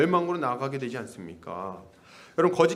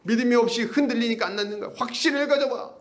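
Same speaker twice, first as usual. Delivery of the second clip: mock confident guru; 6 semitones higher than usual. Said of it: "이렇게 얘기하면서".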